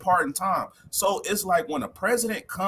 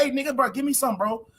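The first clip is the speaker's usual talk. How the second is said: crying out to a brother for help; excited begging; 6 semitones higher than usual. Retold or imitated. Begging a black president.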